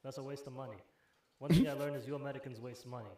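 lightly imitated Yugoslav store guy; a hint of a Yugoslav accent. Store guy lecturing a customer on cash back, light Yugoslav accent. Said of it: "he's Yugoslav".

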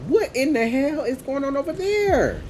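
loud high bewildered yell; shouting. Real, not acted. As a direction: yell across in confusion. Reacting to game chaos.

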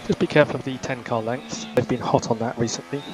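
crackly team radio transmission; race car radio. Acted. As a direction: talk like over F1 pit radio.

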